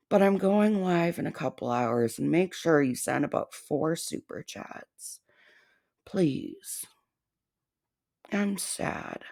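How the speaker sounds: soft, whiny mock sad voice of the target; mock sad impression. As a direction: pout it out as her fake sadness. Impersonating target's fake sadness.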